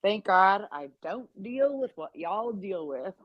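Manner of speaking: smug relieved tone, slightly changed voice; sassy aside. Pretend. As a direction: say it like a cheeky confession. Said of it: "We're just gonna say".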